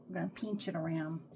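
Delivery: slipping into a light Texas accent on "pinch"; unplanned Texas twang in "We're gonna pinch it around". Real, not acted. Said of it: "Did y'all hear my Texas accent?".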